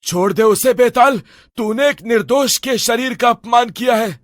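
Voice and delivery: stern order to release him; commanding shout. Acted. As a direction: face the demon down. Sage confronts demon.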